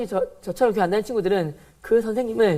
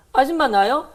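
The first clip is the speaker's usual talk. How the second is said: louder, higher defiant complaint; retold teen defiance, raised voice; defiant retort; 4 semitones higher, 4 dB louder than usual. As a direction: talk back to the teacher hotly. Retold defiant outburst at teacher.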